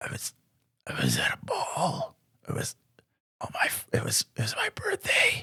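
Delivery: really raspy, halting, very soft whisper. Playing Bodhi in a roleplay scene, answering questions, with a really raspy Bodhi voice. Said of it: "His his voice is like really raspy".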